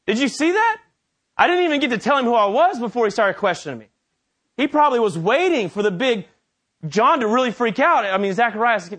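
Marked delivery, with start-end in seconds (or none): 0.1-3.9 indignant complaint. Retold or imitated. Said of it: "And Gabriel's".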